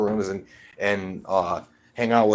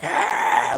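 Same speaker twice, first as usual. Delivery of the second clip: imitated lunatic growl; crazed growl; 2 semitones higher, 3 dB louder than usual. Grandson imitates grandpa growling in his face, crazed growl. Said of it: "growling in my face".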